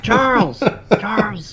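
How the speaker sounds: high, strained hail; mock calling out. Deacon calling Charles across the water, high mock hail. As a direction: call as if from afar. Co-host imitates calling to gunner.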